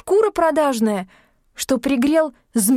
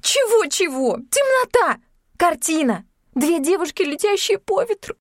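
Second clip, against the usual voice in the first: angry; 10 semitones higher than usual. A narrator's reading. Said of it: "Юлька неожиданно разозлилась".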